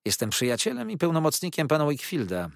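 brisk, steady and firm; calm but firm. A narrator's reading. Treadles answers Uriah calmly but firmly. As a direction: answer coolly. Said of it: "odrzekł spokojnie, lecz stanowczo".

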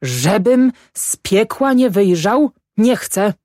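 high, drawn-out tearful oath; sobbing refusal. A narrator's reading. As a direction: swear it through mock sobs. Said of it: "szlochał Grochowski".

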